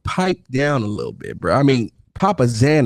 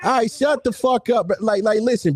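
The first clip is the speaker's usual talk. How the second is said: angry shout; 9 semitones higher than usual. Real, not acted. Yelling at a heckler to shut up, angry shout. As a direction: bark it over the other guy. Heated argument, telling rival off.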